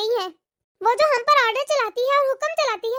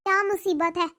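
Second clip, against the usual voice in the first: lower-pitched grumble; exasperated aside; 6 semitones lower than usual. Acted. Shifa complains to herself about the order, exasperated. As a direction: complain under your voice, fed up. Aside after calling back.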